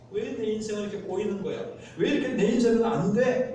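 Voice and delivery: mildly acted exasperation, rising at the end; a touch of indignant griping; angry complaint. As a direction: lament your luck in mock frustration. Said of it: "예, 화를 내고".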